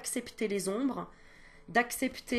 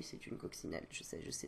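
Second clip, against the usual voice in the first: chuchoté; 14 dB quieter than usual. Real, not acted. Aparté sur son dessin.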